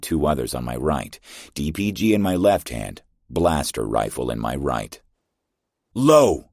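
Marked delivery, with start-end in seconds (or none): 5.9-6.5 sharp, much higher shouted warning; yell. A narrator's reading. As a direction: bark it out as you hit the deck. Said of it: "I yelled".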